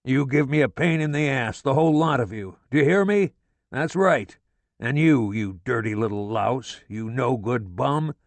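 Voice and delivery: father roaring at his son, furious. A narrator's reading. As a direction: roar it at the top of your lungs. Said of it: "He roars at the top of his lungs".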